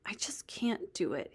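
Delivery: put-on whispered, defeated boy; barely voiced, giving up; deflated. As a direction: let the air go out of him.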